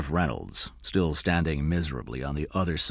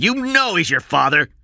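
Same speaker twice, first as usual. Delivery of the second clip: shouted; 13 semitones higher, 9 dB louder than usual. A narrator's reading. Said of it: "Cy shouted".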